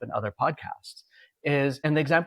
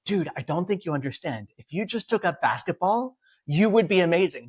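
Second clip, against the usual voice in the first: rising louder and higher to amazing; urging insistently; 5 semitones higher, 3 dB louder than usual. Retold or imitated. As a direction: push him, mildly exasperated. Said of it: "And you're like".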